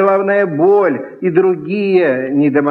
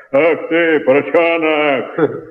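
mock shout, slightly lower and slow; lightly lowered, slowed yell; low-voiced shout; slower than usual. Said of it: "кричал низким голосом, вот так". (крик низким голосом)

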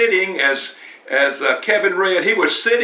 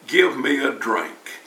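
calm sweet voice; 3 semitones lower than usual. Retold or imitated. Jesus asking the woman at the well, gently. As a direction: ask kindly, no pressure at all. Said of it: "in the calmest, sweetest voice".

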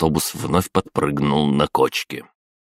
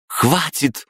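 sharp command, much higher; barking; 12 semitones higher than usual. A narrator's reading. Liza stops the guard from striking Oleg, sharp high bark. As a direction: cut them off with one bark. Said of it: "рявкнула Лиза".

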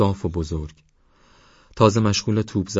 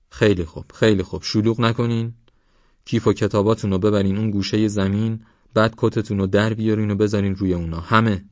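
mild calling out; 3 semitones higher, 3 dB louder than usual. Acted. Organising a crowd of excited children.

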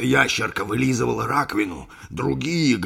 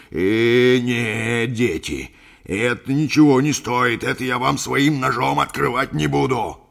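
loud refusal; 3 semitones higher, 6 dB louder, slower than usual. Acted. Captain loudly refusing the lizards.

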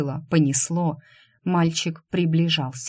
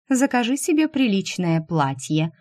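condescending; 3 semitones higher than usual. Acted. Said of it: "снисходительно бросала Ристане".

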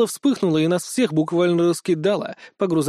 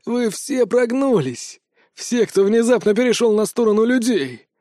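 raised accusing tirade, slowed on the insults; ranting; 2 semitones higher than usual. Acted. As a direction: spit out every accusation. Loki ranting at traitors.

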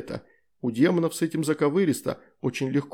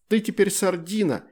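higher excited blurt; 8 semitones higher than usual. Acted. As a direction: blurt it out triumphantly. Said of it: "выпалила Астрид". (выпалила радостно и звонко)

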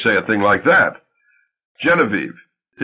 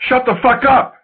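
furious yell, much higher and louder; 13 semitones higher, 3 dB louder than usual. Retold or imitated. Wife yelling at husband, furious shout. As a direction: scream it at him. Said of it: "you yelled".

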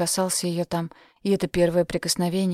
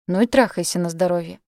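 louder, curt retort; snapping back; 5 dB louder than usual. Acted. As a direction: snap it back at him. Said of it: "огрызнулась она".

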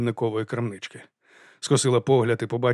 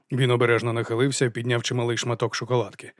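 plain reading voice

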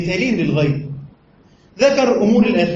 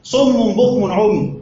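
very slow, measured recited verse; slow reverent recitation; Quran recitation; much slower than usual. Shown as a demonstration. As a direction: recite it word by word, drawn out. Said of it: "في قول الله سبحانه وتعالى".

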